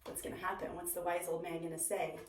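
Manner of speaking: soft, teasing whisper of suspense; hushed suspense. Real, not acted. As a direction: lean in and build suspense. Suspense for children.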